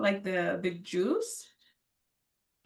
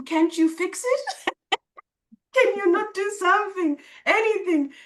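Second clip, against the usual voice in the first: much higher, louder desperate plea; pleading; 9 semitones higher, 4 dB louder than usual. Retold or imitated. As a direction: implore him to fix it, voice pitched up. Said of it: "I asked him".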